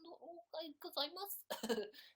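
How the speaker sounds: high-pitched cutesy nonsense babble, ending in a laugh; failed Phil impression. Streamer botching an impression, high kawaii-style babble. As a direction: squeak mock-cute gibberish, then laugh. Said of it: "okay, Phil impression".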